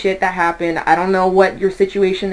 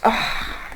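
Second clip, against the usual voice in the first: soft unvoiced sigh; real dismayed sigh; 8 dB quieter than usual. Real, not acted. Tarot reader reacting to bad cards, dismayed sigh. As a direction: let out a quiet, voiceless sigh.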